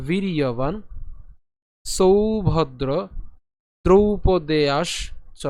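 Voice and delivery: very slow, drawn-out shloka reading; deliberate Sanskrit recitation for learners; repeated verse recitation. Shown as a demonstration. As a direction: stretch each word, pausing between phrases. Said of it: "আরেকবার".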